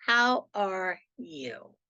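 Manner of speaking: a slow, sincere how are you, drawn out; caring check-in. Shown as a demonstration. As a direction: ask it slowly, like you truly care. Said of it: "and just say".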